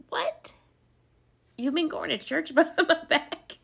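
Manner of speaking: a high, shocked "What?" in disbelief; mock outrage that tips into a laugh. Shocked he went to church.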